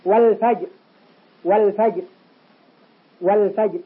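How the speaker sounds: "والفجر" as wal-fajr, l sounded; clear lam. Shown as a demonstration. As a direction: hold the l clearly before f in "والفجر". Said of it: "ظهرت اللام". (إظهار لام "والفجر")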